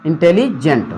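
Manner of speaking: इंटेलिजेंट with a short break before जेंट; split in two. Shown as a demonstration. Teacher showing it reads like two words, split in two. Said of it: "जेंट अलग हो गया".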